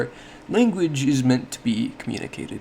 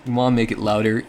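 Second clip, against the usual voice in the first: LOUDER given a boost in volume; quick phrase that swells on LOUDER; emphasis by volume; 7 dB louder, faster than usual. Shown as a demonstration. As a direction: demonstrate highlighting by hitting LOUDER.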